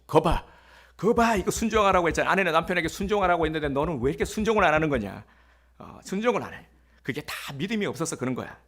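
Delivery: a husband lecturing his wife, in a mock scolding tone. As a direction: scold her like a self-righteous husband.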